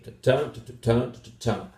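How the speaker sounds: "ta-ta, ta-ta-ta, ta-ta" in three rhythmic beats; phrasal grouping. Shown as a demonstration. Teacher beating out the phrase groups, "ta-ta" rhythm with falling ends. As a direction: tap out "ta-ta, ta-ta-ta, ta-ta" as separate word groups. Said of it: "which groups of words go together".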